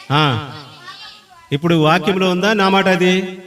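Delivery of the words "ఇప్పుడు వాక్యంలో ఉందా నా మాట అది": higher, louder, quick challenge to the crowd; challenging. Real, not acted. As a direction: demand an answer from them. Preacher challenges the congregation.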